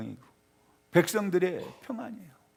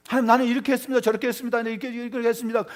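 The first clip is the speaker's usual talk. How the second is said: higher, insistent listing of deeds; self-justifying prayer; 5 semitones higher, 5 dB louder, much faster than usual. Acted. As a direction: rattle off your merits to God, pitched up. Acts out self-justifying prayer, then contrasts it.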